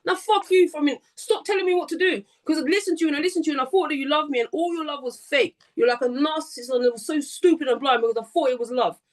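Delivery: unload on her, she's not telling you what to do anymore; angry rant. Retold or imitated. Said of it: "you know, anger".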